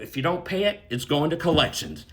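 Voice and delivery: calmly retold warning; unbothered, matter-of-fact quote. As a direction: state the consequence without any heat. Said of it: "he just calmly said".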